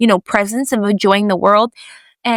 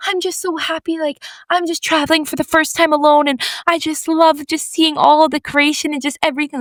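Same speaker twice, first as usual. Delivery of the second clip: imitating a delighted traveler, higher pitched; happy gushing; 5 semitones higher than usual. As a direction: gush lightly about the trip, voice raised. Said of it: "she was so happy".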